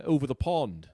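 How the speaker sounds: put-on English accent; mock English "over the pond". Comic announcing where he supposedly is, English accent. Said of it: "did Omicron give you an accent".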